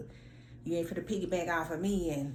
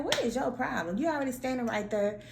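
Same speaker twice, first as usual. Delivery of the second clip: exasperated; 6 semitones higher than usual. Retold or imitated. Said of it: "I'm like".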